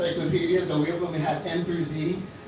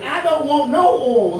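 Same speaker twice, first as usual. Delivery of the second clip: louder, high, drawn-out Southern redneck drawl; redneck Southern accent; 8 semitones higher, 6 dB louder, slower than usual. Acted. Redneck customer repeating his order to the clerk, insistent Southern accent. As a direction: holler it slowly in a high redneck Southern twang. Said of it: "a redneck Southern accent".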